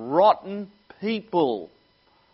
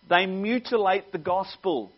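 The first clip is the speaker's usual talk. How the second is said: rising preaching; 4 semitones higher, 6 dB louder than usual. Acted. Preaching climax on false teachers.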